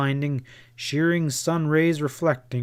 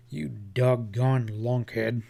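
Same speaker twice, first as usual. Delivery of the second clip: angry at himself; slower than usual. Acted. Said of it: "he told himself angrily".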